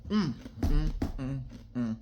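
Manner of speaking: crunching ice while talking; mouth full of ice. Real, not acted. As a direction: hum through a mouthful of ice. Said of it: "I'm tearing this ice up".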